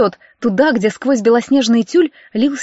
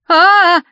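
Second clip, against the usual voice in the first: higher, much louder shriek of fright; startled scream; 7 semitones higher, 6 dB louder than usual. A narrator's reading. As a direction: recoil from the cockroach with a shriek. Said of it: "Она отшатнулась". (визг испуга при виде таракана)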